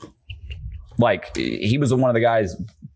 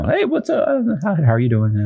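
mock friendly greeting; 5 semitones higher than usual. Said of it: "He fucking just, you know".

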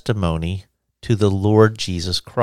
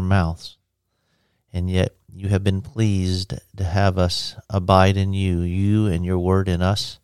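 prayer. Acted. Prayer to the Lord.

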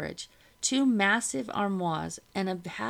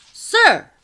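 high, loud excited shout; 17 dB louder than usual. A narrator's reading. Soldier calling his officer from upstairs, shouting. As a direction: call out urgently to an officer. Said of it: "shouted a soldier upstairs".

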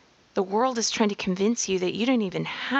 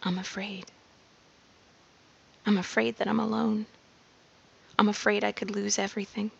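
afraid; faster than usual. Acted. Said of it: "Those sentences will sound like".

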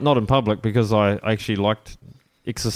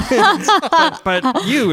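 high, louder imitation of an American local; retold impressed shopworker; 6 dB louder, much slower than usual. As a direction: mimic her singling someone out, pitched well up. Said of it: "and she looked at Pioneer".

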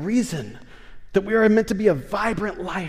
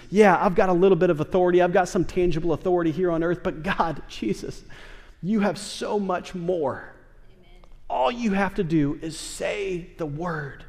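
humble plea. Acted. Centurion humbly addresses Jesus.

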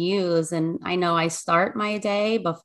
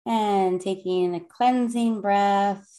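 soothing calm voice. Acted. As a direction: lead the breathing gently and unhurried. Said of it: "the soothing, calm voice of Lynn".

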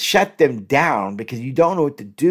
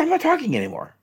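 mock shutdown line; 13 semitones higher, faster than usual. Shown as a demonstration. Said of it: "Don't say it that way".

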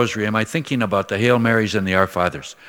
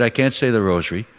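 anxious mother; 2 semitones higher than usual. Retold or imitated. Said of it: "She said".

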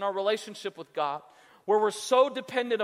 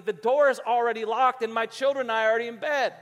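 loud, emphatic refusal; irritated householder; 5 dB louder than usual. Acted. Man in bed to late-night knocker, irritated. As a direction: send the knocker away firmly.

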